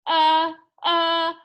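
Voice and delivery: a flustered, halting stammer; sputtering. A narrator's reading. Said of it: "he sputtered".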